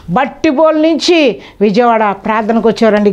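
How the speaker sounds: ordinary talk, nothing marked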